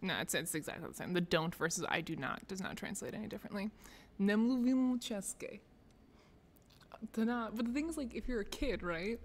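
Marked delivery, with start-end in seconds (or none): 4.2-5.6 slow Czech in an American accent; butchered American accent. Shown as a demonstration. Practising a Czech phrase, butchered American accent. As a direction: carefully sound out Czech with American vowels. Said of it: "in butchered American accent".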